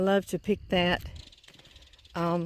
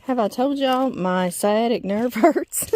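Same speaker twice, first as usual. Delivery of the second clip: slow, louder mock complaint with a laugh; sarcastic; 2 semitones higher, 6 dB louder, slower than usual. Real, not acted. Joking to viewers about her sore nerve, slow sarcastic complaint. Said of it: "I'm being very sarcastic".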